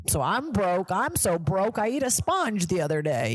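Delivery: mock comic. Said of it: "every white male comic starts being like".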